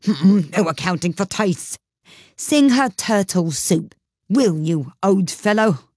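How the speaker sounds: mildly offended. Acted. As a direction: sniff at her poor taste. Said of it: "in a rather offended tone".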